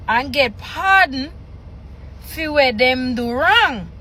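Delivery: measured read-aloud in Jamaican Patois; scripture reading. Acted. Reader reciting Jesus' words from Patois scripture, measured read-aloud. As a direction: read the verses out phrase by phrase, pausing between.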